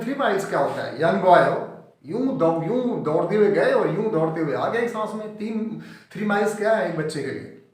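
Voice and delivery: lively retold egging-on of a boy; mildly acted dare; goading. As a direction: make light of it to spur him on. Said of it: "उसको थोड़ा excite करते हैं जानबूझ के".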